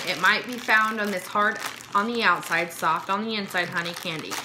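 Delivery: upbeat product voice-over read; script read. Acted. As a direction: read it like a snack-box ad.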